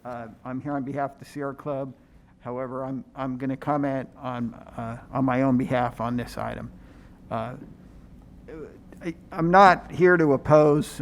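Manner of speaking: muffled voice behind a face mask; talking through a mask. Real, not acted. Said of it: "can you hear me through the mask".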